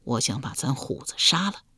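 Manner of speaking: low voice. Acted. Husband confessing his plan to his wife, softly. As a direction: say it under your breath. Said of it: "小声说道".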